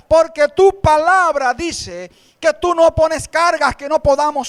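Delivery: loud, fervent demonstrated prayer; a fervent prayer said out to the church; model prayer. Shown as a demonstration. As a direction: show them how to pray it boldly. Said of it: "dile al Señor".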